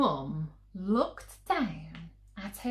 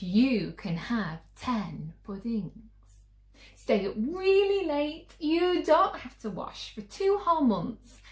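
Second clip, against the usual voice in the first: higher and louder as the offers grow; eager mum; 4 semitones higher, 4 dB louder than usual. Acted. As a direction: pile on the bribes with rising eagerness. Mum raising her offer.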